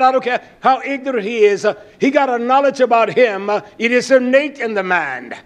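forceful sermon delivery; insistent pulpit voice with punched words; emphatic preaching. Real, not acted. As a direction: hammer each point to the congregation.

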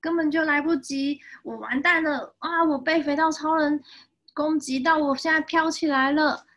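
high, loud wailing monster; acted panic. Overwhelmed monster wails about being beaten, mock panic.

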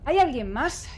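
tense whisper; hushed nervous whisper. Real, not acted. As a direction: breathe the question out. Sneaking, whispering.

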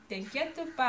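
"t'inquiète pas" with a light southern French twang; southern French accent. Shown as a demonstration. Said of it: "avec mon accent du sud".

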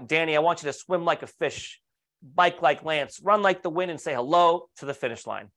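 put-on playful, half-done New York accent cheering a friend on; ridiculous New York accent. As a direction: lightly imitate a colleague's New York accent. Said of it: "he always spoke in this ridiculous New York accent".

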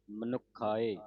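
ਮਨੁਖਾਏ with a tight, doubled ਖ; ਮਨੁਖਾਏ ਕੱਸ ਕੇ ਬੋਲਣਾ; doubled consonant. Shown as a demonstration. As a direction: press hard on the ਖ in ਮਨੁਖਾਏ. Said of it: "ਅਧਿਕ ਲਾ ਕੇ ਉਚਾਰਨ ਕਰਨਾ".

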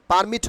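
"পারমিট" with R sounded; wrong pronunciation. Shown as a demonstration. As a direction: say "পারমিট" as "par-mit", plain P. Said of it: "পারমিট হবে না". ("পারমিট", র স্পষ্ট করে)

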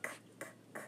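soft unvoiced k, k, k repeated; k sound. Shown as a demonstration. Teacher to class, demonstrating the k sound in a hush. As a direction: tap out the k sound three times in a breath. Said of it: "the k sound".

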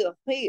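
thick, scraped खी; heavy kha. Shown as a demonstration. Teacher models a heavy letter, खी with thick rasped kh. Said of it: "मोटा ही पढ़ा जाएगा".

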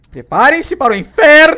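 slow, loud, high theatrical proclamation with a laugh; hammed-up villain. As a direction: announce doom like a movie villain. Low HP, dramatic announcement. (vilão exagerado, lento e alto)

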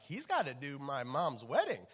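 laughing worry. Retold or imitated. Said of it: "She's like".

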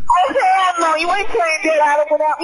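hammed-up scolding in a put-on woman's voice; mock black woman yelling. Brother scolds the gamers for playing without him, mock yelling woman. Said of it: "that was him doing a black voice".

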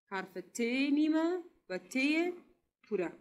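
slow, careful naming of letter forms; ت نیمه and ت پوره said slowly, each word apart; slow teaching. Shown as a demonstration. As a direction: spell it out slowly for young pupils. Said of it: "براتون میگم".

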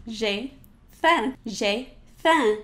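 faim with nasal E, no m; French j'ai faim. Shown as a demonstration. Teacher modeling j'ai faim, nasal E. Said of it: "say that together".

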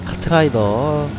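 brisk play-by-play caster voice; sports commentator. Acted. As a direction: call the match like a live caster. Mock commentary on game.

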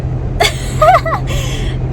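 high-pitched burst of laughing; real laughter. Real, not acted. Wife cracking up at her husband, real high laughter.

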